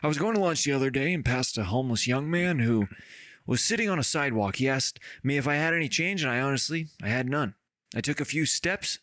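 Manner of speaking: lightly voiced letter reading; a hint of someone else's voice; imagined letter writer. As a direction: read it out as the imagined sender, only mildly put on. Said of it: "the voice way I think they might sound".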